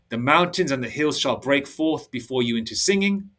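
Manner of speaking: measured, declaimed Bible verse; formal recitation of scripture; scripture reading. Acted. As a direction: read the verse out deliberately. Reads scripture aloud.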